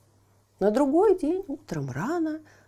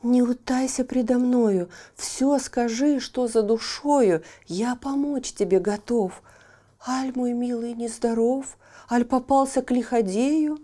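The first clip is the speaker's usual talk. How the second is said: higher, eager helper voice; caring little horse; 4 semitones higher, 5 dB louder than usual. Acted. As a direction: offer help warmly, small creature. Horse offers help.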